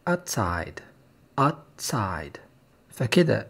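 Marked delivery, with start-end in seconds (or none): 0.1-2.4 outside with the first vowel clipped to "atsaid"; clipped fast outside; reduced outside. Shown as a demonstration. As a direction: swallow the start of outside quickly. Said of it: "outside لما بتتقال بسرعة بيبقى".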